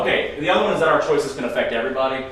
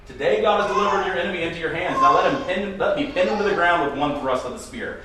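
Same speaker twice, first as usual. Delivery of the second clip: eager urging; 5 semitones higher than usual. Retold or imitated. Abishai urging David eagerly.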